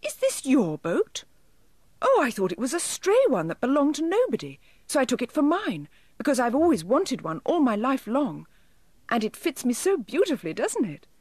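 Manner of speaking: high, small elf voice explaining anxiously; high-pitched, apologetic little creature; dismayed elf. A narrator's reading. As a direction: plead your case as a tiny elf. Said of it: "cried the elf in dismay".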